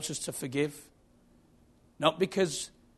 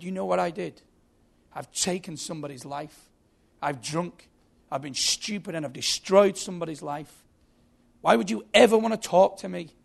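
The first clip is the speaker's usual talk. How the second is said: anguished confession; 4 semitones higher, 4 dB louder than usual. Acted. Drunk driver confessing to a visitor in his cell, anguished. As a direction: voice rising into a louder, higher protest.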